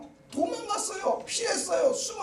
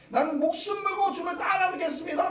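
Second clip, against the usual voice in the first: firm vow; 6 semitones higher than usual. Acted. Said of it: "굳게 맹세를 합니다".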